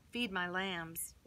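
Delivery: calmly entrust him a task; gentle. Acted. Jesus gives Peter a gentle charge.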